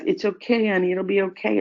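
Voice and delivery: lightly imitating a fussing adult; mock soothing. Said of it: "the comforting".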